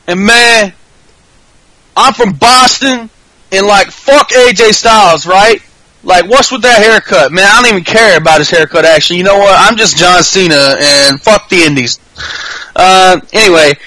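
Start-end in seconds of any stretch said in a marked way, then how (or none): 0.1-12.0 Boston impression. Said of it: "starts talking like he's from Boston".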